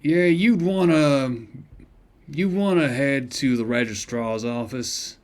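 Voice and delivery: gruff shopkeeper voice. Acted. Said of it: "doing this voice is shredding my vocal cords".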